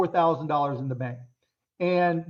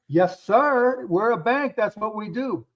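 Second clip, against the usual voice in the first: put-on Texas accent; 3 semitones higher, slower than usual. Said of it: "he got this Texas accent".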